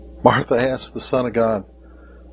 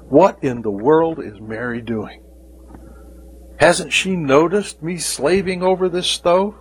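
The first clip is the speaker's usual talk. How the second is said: frustrated Martha; 3 semitones higher than usual. Acted. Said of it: "I wonder how much work she did before".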